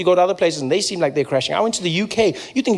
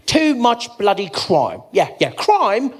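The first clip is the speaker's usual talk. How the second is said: smug lecturer. Retold or imitated.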